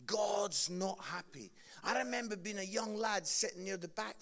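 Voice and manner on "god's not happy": slow, a hint of the grim evangelist; lightly imitated preacher. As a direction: retell the line slowly, only lightly voiced. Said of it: "That is how he would always start".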